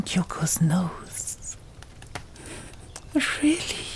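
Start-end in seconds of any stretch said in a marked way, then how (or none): 3.4-3.9 lightly voiced, rising surprise; a hint of a teasing young woman; playful Kyoko. Kyoko teasing Asmund, mock surprised.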